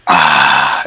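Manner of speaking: low contented sigh after drinking coffee; satisfied ahh after a sip. Real, not acted. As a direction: let out a pleased ahh after sipping. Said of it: "Pardon me while I sip my coffee".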